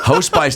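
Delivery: "Hospice" said as hoe-spice; long O, then "spice", in "Hospice"; misread hospice. Shown as a demonstration. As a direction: rhyme the end of "Hospice" with "spice". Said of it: "does sound like a spicy dating app".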